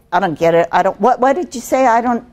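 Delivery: hurried, stumbling confusion; rushed pace. Shown as a demonstration. Trainer showing what not to say when confused, rushed and fumbling. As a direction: trip over the words as if flustered. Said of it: "the pace, take it slow".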